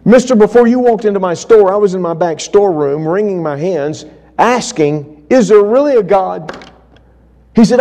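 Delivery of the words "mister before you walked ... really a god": much higher and louder, pleading urgency; a man at the end of his rope; high, loud desperate confession; desperate outpouring. Retold or imitated.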